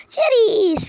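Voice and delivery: high, loud, drawn-out call; calling out cheers. Real, not acted. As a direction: sing it out for the camera, falling at the end. Calls out a camera pose word.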